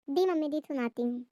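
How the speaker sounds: obedient lisped reply; lisping. Acted. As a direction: say "दी" for जी, tongue-tied. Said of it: "मजाकिया गीत सुनाएगी तोंतली आवाज़ में". (तोतली आवाज़ में)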